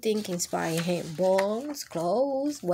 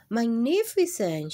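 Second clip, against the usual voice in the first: chirped; 4 semitones higher, 4 dB louder than usual. Acted. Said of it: "chirped the little yellow bird".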